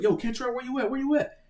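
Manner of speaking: high urgent call across a brawl. Retold or imitated. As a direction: shout for your friend in the fight. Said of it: "my boy was like".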